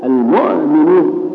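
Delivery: المؤمنون slowly, with an overdone glottal catch; forced hamza. Shown as a demonstration. Teacher mimicking an overzealous reciter, forced hamza in المؤمنون. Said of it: "تقول أنا أهمز".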